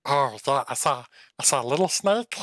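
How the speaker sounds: lightly voiced fox, quick and pleased; little fox rattling off a hunt, chuckling after; fox in clean voice. Fox recounts chasing a snake, quick and gleeful. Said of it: "I'm gonna do this in the clean voice".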